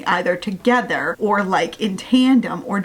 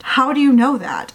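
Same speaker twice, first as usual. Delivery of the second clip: incredulous, pushed-up repeat of a challenge; insistent; 4 semitones higher, 3 dB louder than usual. Real, not acted. Reader challenges the heroine's certainty about her ally, insistent. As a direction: press the question harder, a touch higher.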